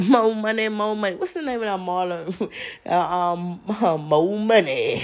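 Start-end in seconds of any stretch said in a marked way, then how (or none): 3.7-5.0 slow, laughing through the catchphrase. Real, not acted. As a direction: chuckle while fumbling for it. Laughing while recalling the catchphrase.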